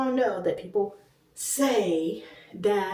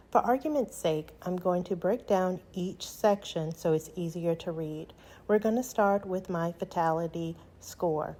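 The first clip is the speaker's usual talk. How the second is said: measured, even results narration; walk viewers through the figures calmly; composed explainer read; presentation voiceover; 4 dB quieter than usual. Real, not acted. Recorded voiceover of scan results.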